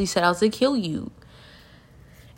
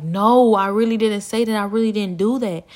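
louder, higher protest of innocence; insistent denial; 3 semitones higher, 6 dB louder than usual. Retold or imitated. Falsely blamed woman answering her accusers, insistent. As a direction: protest it, leaning hard on the denial.

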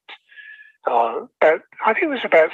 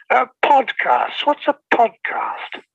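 baffled question; 6 semitones higher, slower than usual. Real, not acted. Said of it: "technology has gone a little bit beyond".

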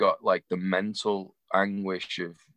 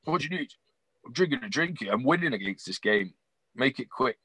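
higher-pitched, lightly imitated gruff Welshman; a rock singer; 5 semitones higher than usual. Busy rocker brushes off a fan, mock aggressive. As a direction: imitate an impatient man interrupted mid-drink. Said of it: "he talked like that".

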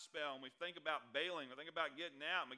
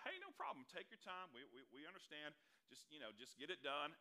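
easygoing reassurance; 3 dB quieter than usual. Retold or imitated. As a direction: reassure the waitress kindly. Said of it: "Immediately we're like".

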